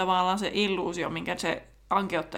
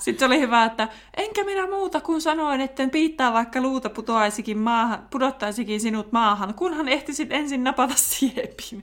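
lightly voiced stern professor, a bit higher; a hint of a stern headmistress scolding; McCormy lecturing; 4 semitones higher than usual. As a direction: mimic a strict teacher's telling-off, half-hearted. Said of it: "McCormy vakipuhutteli".

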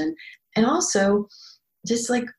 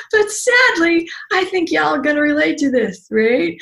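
mock sadness; 7 semitones higher than usual. Real, not acted. Teasing sad joke to viewers.

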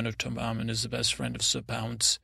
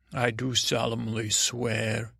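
slow, grave oath-taking voice; solemn oath swearing. Pretend. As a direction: swear it slowly like a knight. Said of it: "hold your hand up like you're swearing".

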